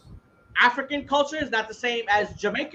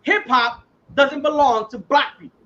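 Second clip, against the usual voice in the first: passionate rant; 3 semitones higher than usual. Real, not acted. Host ranting to friends about black accents, fired-up. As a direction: hammer each city home with conviction. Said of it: "he was on a good rant".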